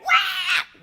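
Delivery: loud whooping cheer at the screen; cheering friends at the movie, shouting loud; excited whoop. Retold or imitated. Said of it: "we're like".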